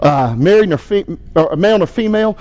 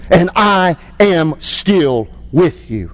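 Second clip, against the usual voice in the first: pastor's closing prayer. Acted. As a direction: lead the congregation in prayer.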